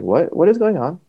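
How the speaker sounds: high, startled what; alarmed question. Retold or imitated. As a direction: shoot the question up in shock, retold. Told he must go to hospital.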